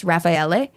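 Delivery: "Raffaele" with the final E sounded; "Raffaele" in full, ending on an extra vowel after the L; Italian pronunciation. Shown as a demonstration. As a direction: say "Raffaele" as rah-fai-EL-ay. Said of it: "it should be pronounced".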